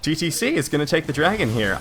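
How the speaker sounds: breathless after hyped casting; winded from calling the fight; out of breath. Real, not acted. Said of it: "I am out of breath".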